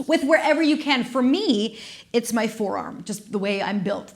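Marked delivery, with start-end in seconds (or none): 0.1-1.0 said through a laugh. Real, not acted. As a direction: laugh while giving the cue. Laughing through cue to class.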